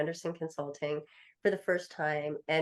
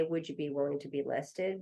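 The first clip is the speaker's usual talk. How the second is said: gentle ask; 4 semitones lower, 5 dB quieter than usual. Shown as a demonstration. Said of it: "Just say".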